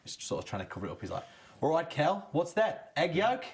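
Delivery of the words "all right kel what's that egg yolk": high, loud Welsh coach impression; imitating the coach in a Welsh accent. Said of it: "I like the Welsh accent as well there".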